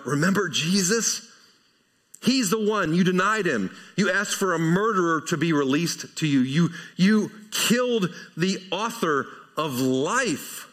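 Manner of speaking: a preacher's lightly voiced accusation; accusing scold. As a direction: point the finger at the crowd. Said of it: "I don't think you read the inflection here that way".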